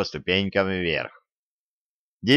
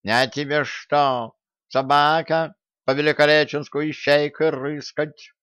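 angry meow; 5 semitones higher than usual. A narrator's reading. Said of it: "сердито мяукнул откуда-то со двора кот".

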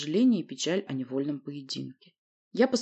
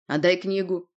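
firm, mildly insistent demand; restrained but firm order. Acted. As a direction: demand it without shouting. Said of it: "потребовал толстяк".

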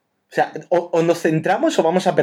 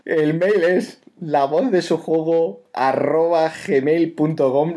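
slow, careful velvety read of the email; 4 semitones higher, slower than usual. Pretend. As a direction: say every part of the address slowly. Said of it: "despacito y con voz aterciopelada".

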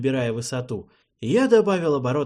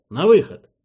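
much louder, shouted order; loud call out; 6 semitones higher, 12 dB louder than usual. Acted. Pilot ordering the passenger out, loud shout. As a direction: yell the order to get out.

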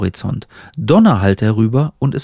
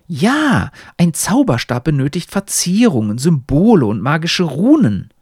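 lightly voiced talking hat, higher; higher, emphatic tutor; lecturing hat; 4 semitones higher than usual. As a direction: instruct the pupil with raised, emphatic pitch. Hat lectures Ernst on wands.

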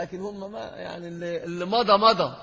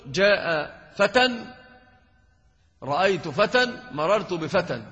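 slow model examples; slower than usual. Shown as a demonstration. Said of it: "teacher models three examples".

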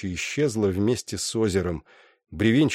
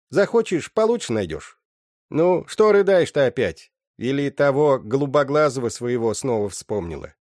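higher, loud nagging mother's voice; mother Agna lecturing her daughter, high and loud; lecturing old mother; 5 semitones higher, 4 dB louder than usual. Acted. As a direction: talk her daughter down, brisk and sharp.

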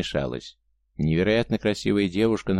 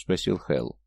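ordinary delivery

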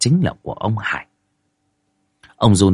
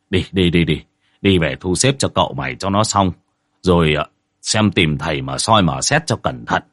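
a lightly voiced older man, lower and resigned after a sigh; weary boss; 4 semitones lower than usual. Boat owner Thịnh telling Tín to go home, weary low voice. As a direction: settle them down, tired and heavy.

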